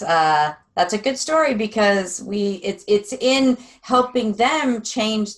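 ordinary talk

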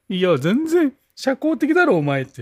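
laughing while teasing; laughing disbelief. Real, not acted. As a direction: tease through laughter.

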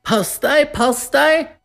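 very high, urgent warning call. A narrator's reading. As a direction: cry out to clear the way. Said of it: "var det en som ropte".

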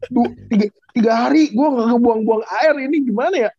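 groaning from belly pain; complaining of a cramping stomach; stomach cramps. Pretend. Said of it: "Perut gua kaku". (mengeluh perut mulas)

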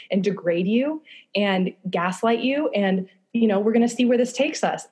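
voicing her hurt inner self, lightly; mock inner monologue; inner voice aside. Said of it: "even though I'm like".

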